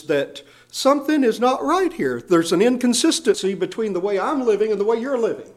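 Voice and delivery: insistent fatherly entreaty; pleading like a father. Acted. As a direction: press the point as a worried father would. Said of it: "like a father would beg a beloved son".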